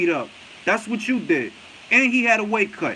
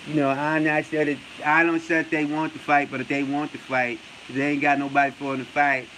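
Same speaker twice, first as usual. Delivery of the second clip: low, monotone mock impression; Errol Spence; 5 semitones lower than usual. Mocking a boxer's interview talk, low silent-assassin impression. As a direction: mimic a halting, low-key interviewee. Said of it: "he talk like a silent assassin".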